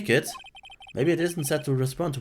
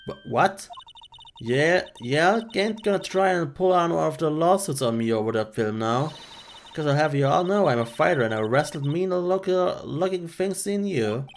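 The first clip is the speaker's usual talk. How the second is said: a rural woman grumbling at city folk; country woman scolding; 4 semitones higher than usual. Acted. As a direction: complain about the cost of film. She bristles at lawyer.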